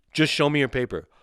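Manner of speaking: high mock command; imitated border agent. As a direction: parrot the order mockingly. Mimics the agent's order.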